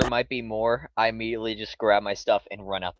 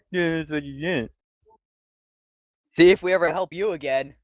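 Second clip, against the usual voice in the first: rising angry parting shot; angry retort; 6 semitones higher than usual. Pretend. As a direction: storm out with a raised voice. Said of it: "I say as I slam the door".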